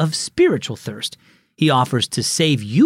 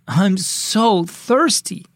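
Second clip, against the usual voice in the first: put-on slow, higher, groaning girl's whine; 6 semitones higher, much slower than usual. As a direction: drag it out like a parched girl. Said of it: "She groaned".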